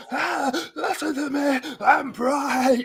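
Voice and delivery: high, slow giggly imitation; giggly mock voice. Teasing Bright's giggly mood with a high slow mock voice. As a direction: mimic a friend in a giggly mood. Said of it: "I can hear the giggle in your voice".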